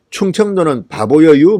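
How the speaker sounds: slow, drawn-out Chungcheong dialect ending; Chungcheong dialect quote. Retold or imitated. Online commenter mocking the region, slow Chungcheong dialect. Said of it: "뭐 이런 댓글이 나옵니다".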